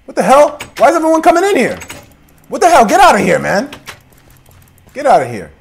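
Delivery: very high, loud shrieks; outraged yelling. Acted. Homeowner screaming at villagers barging in. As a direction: scream them out of the house. Villagers flooding into his house.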